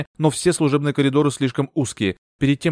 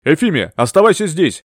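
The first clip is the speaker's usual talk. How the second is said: louder, quick blurted command; blurted order; 5 semitones higher, 7 dB louder than usual. A narrator's reading. Bertram orders Euphemia to stay put, blurted loud. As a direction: bark the order and run. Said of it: "выпалил мистер Бертрам".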